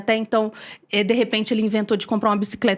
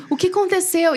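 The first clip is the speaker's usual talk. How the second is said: raised voice, anxious question; mimicking her husband, higher and anxious; worried husband quoted; 6 semitones higher than usual. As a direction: ask it like a startled husband.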